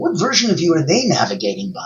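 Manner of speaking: stress on "they".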